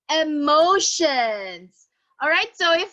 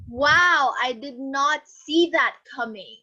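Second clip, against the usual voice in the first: louder "Wow" then a falling line; surprised; 4 dB louder than usual. Shown as a demonstration. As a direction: sound caught off guard. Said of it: "expressions that show surprise".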